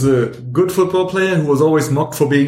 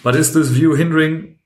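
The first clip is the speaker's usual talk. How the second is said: flat, even robot reading; robotic voice. Acted. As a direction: read it out like a robot. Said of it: "Why are you reading this in a robotic voice?".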